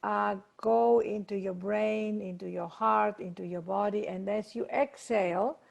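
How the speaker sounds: measured meditation guide, pausing between phrases; guided meditation. Acted. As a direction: lead them gently through each step, drawing out key words. Leads a meditation.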